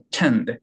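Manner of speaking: "tend" with a spat T and full stress, tiny opening vowel; strong tend. Shown as a demonstration. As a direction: hit the T of "tend" hard. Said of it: "tend는 tend대로 이렇게 강하게". (T를 터뜨려 강하게 "tend")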